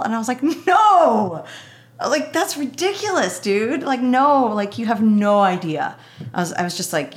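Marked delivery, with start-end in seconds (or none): 0.4-6.0 high, emphatic protest with a loud drawn NO; incredulous refusal. Retold or imitated. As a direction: balk at an absurd suggestion, voice shooting up. Retelling her disbelieving refusal.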